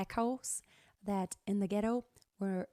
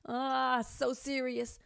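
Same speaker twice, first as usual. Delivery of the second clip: serious; 3 semitones higher, slower than usual. Shown as a demonstration. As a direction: sound grave. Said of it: "change those voice colors".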